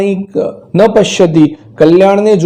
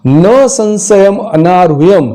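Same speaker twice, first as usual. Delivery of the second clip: drawn-out, careful verse reading; measured shloka chant; slow Sanskrit recitation; slower than usual. Shown as a demonstration. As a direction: recite the line slowly for the class. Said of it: "તો ફરી એકવાર શું".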